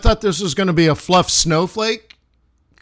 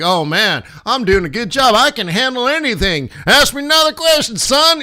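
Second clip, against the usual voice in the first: swagger up to a high, fast son; cocky Bush impression; 6 semitones higher than usual.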